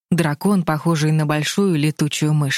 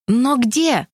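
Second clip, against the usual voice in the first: exclaiming; 7 semitones higher than usual. A narrator's reading. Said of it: "в один голос воскликнули".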